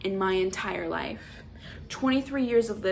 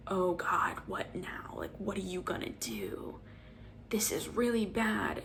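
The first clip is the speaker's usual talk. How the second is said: whispered, on the edge; tense whisper; 7 dB quieter than usual. Retold or imitated. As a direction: hush it like you're scared. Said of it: "has you thinking".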